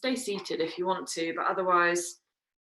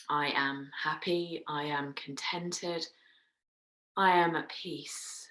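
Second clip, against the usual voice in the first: slow, evenly spaced statements; slow affirmation; slower than usual. Shown as a demonstration. Meditation teacher models sample sankalpas for her class, slow affirmation. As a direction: say each affirmation slowly and deliberately.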